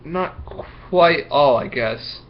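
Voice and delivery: slow, reluctant confession; sheepish admission. Acted. Marco admitting to Miss Block, slow and sheepish. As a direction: own up slowly and sheepishly. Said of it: "with sort of a squirm".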